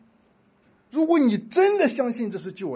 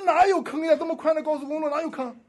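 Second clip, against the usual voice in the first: 1 incredulous; 8 semitones higher than usual. Retold or imitated. Doubting driver retorts.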